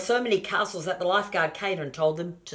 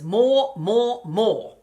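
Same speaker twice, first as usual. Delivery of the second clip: loud, high, insistent more; greedy piglet yelling more; demanding shouts; 6 semitones higher, 11 dB louder, much slower than usual. A narrator's reading.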